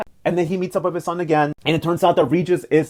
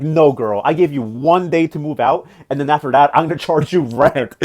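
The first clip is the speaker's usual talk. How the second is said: bossy grandma; 4 dB louder than usual. Retold or imitated. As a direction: lay down the law like a grandma. Grandma bossing granddaughter out of mansion.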